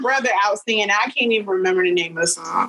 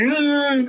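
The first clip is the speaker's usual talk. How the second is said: imitated ugly-cry groan; 5 semitones higher than usual. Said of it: "like, ugly cry".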